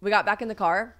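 ordinary talk

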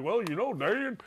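lightly voiced Indiana classmates remarking; imitated Indiana accent. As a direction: mimic IU students with an Indiana accent. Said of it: "and they're like".

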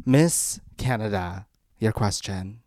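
lightly voiced pageant host posing a question; measured, pausing mock-formal question. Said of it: "a Miss Universe question".

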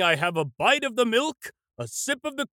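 woozy, mixing up his words; slurring a little, medicated and dazed; groggy from anesthesia. Acted. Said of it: "Let me start again".

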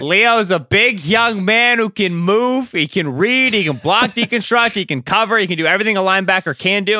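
mid-Atlantic announcer cadence; transatlantic accent. Pretend. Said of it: "in that cadence".

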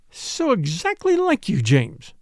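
high, slow, drawn-out reproach; a mild, wounded scolding of her brother; reproachful. Acted. Sister chiding James over his mahjong play, reproachfully. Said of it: "said Caroline reproachfully".

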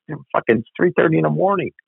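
laughing, pitched high with disbelief. Real, not acted. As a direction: laugh through the outrage at the hour.

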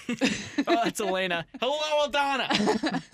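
high, slow, worried mother voice; Missus Weiss. Pretend. Host plays a guest's mother asking for her son, high and fretful. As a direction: fret like an anxious mom looking for her son. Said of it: "Ryan's mom".

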